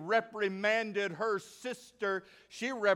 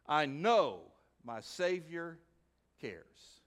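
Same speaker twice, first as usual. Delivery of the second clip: tender hymn quote; slower than usual. Acted. Preacher quoting an old song, tender and fading. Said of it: "let me quote an old song".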